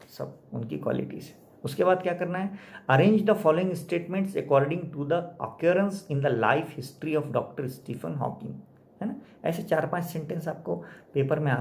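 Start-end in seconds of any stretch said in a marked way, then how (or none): 2.9-8.5 slow, deliberate reading of the question; slow read-aloud. Acted. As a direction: dictate each word slowly for the class. Reads exam question aloud. (धीरे धीरे पढ़ना)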